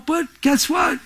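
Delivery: high shouted challenge. Real, not acted. Preacher challenging the congregation, high shout. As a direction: fling the question at the congregation.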